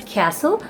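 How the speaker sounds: "castle" with short A as in "cat"; short-A pronunciation. Shown as a demonstration. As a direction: say "castle" as KASS-ul. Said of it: "in Australia also they pronounce this".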